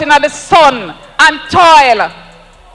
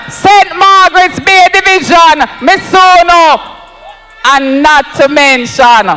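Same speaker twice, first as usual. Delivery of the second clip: rally roll call. Real, not acted. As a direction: build the chant, shouting the last ones.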